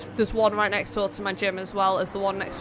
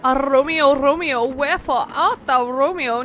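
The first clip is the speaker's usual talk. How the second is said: mock Shakespeare recital; 5 dB louder than usual. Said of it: "quoting Shakespeare's balcony line".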